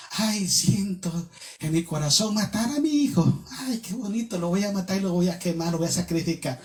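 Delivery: softly mocking, put-on heartfelt sigh of words; mock sentimental. Preacher imitating a sentimental Abraham to the congregation, softly mocking. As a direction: say it softly, with ironic sweetness.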